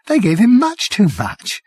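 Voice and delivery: a broken journalist starting to weep; on the edge of tears. Acted. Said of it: "He started to cry".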